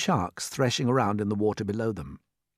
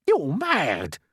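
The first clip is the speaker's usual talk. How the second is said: cry; 7 semitones higher, 5 dB louder than usual. Acted. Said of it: "cried the earthworm".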